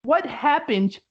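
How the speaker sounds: high, slow puppet voice; squeaky hand-puppet book, drawn out; talking book puppet. Retold or imitated. Podcaster voicing the puppet book asking Beetlejuice, high and slow. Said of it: "makes it talk with his hands".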